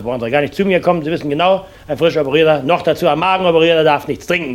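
normal talking voice

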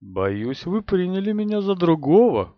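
silky, self-satisfied and ingratiating; oily, smug voice. Acted. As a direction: purr it, sweetly insinuating. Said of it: "Голос был такой елейно вкрадчивый и самовлюблённый".

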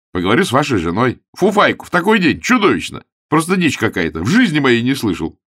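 high, loud outraged tirade; indignant rant. A narrator's reading. Augustine ranting about the flannel vest, indignant. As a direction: rant at the absurdity.

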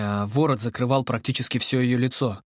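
ordinary delivery

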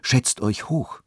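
slow, measured start of a request; a slow, careful opening; slowly. A narrator's reading. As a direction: draw the words out deliberately. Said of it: "begann er langsam".

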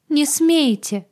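high, loud tearful cry; sobbing. Acted. Agata at heroine's feet, high sobbing plea. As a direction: sob the plea out. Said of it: "всхлипывала она".

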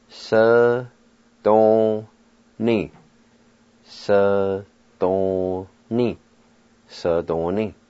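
"Se-don-ni" sounded out slowly, then said whole; Cherokee syllables. Shown as a demonstration. Teacher modelling the Cherokee word for tub. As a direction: break "Se-don-ni" into syllables, then blend them. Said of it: "Cherokee word for tub".

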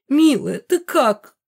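put-on a mother fussing over her child; doting mother, gushing with worry. A narrator's reading. Mother fusses over daughter.

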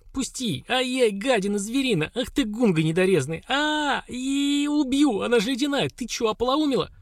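sleepy furious shriek. Acted. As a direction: shriek in outrage, half-awake. Соня отбивается спросонья, кричит. (визгливый крик спросонья)

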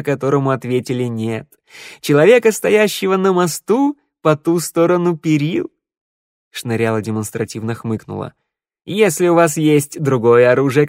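ancient minstrel. Acted. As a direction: speak as an ageless wanderer. Minstrel's wistful speech.

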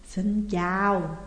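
slow, drawn-out ghostly hello; a ghost greets the caller, very slowly; eerie ghost greeting. Acted. A ghostly woman greets Dự on the phone, slow and eerie. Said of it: "kèm theo một câu nói".

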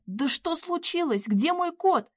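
high, drawn-out wail; tearful cry. A narrator's reading. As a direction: plead in rising distress. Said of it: "заплакав в голос, крикнула Надя".

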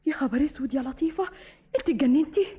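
horrified sister, voice breaking; tearful alarm. Acted. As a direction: cry out in dismay at her madness. Sister shocked by escape plan.

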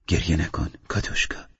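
softly, fading to a whisper on her name; tender whisper. Acted. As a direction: soothe her so she stops crying. Comforting crying Katushka. (دلداری آرام و نجواگونه)

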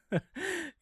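rough, cheerless short laugh; hoarse joyless laugh. Acted. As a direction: laugh hoarsely, without fun. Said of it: "Там хрипло засмеялись, но не весело".

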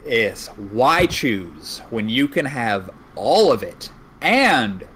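slow drawn-out sales pitch; home shopping host. Pretend. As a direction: sell it like a TV ad. Mock sales pitch continued.

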